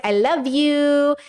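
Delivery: drawn-out cute I love you. Pretend. Telling a best friend I love you, slow and cute. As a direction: stretch it out sweetly, like to a cat. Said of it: "to my best friend".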